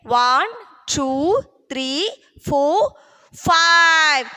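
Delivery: put-on counting aloud for kids to echo; broad singsong kids theatre. Shown as a demonstration. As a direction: lead the class in counting. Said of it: "Say with me".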